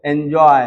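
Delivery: एंजॉय projected, with a clear ऑय glide at the end; demonstrated ऑय sound. Shown as a demonstration. Teacher showing the ऑय sound, demonstrating एंजॉय. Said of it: "बोलते हैं एंजॉय".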